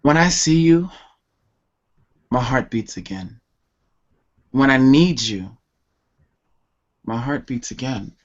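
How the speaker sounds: measured, pleading spoken-word delivery; longing poem recital. Acted. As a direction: recite a plea to an absent love, with long pauses.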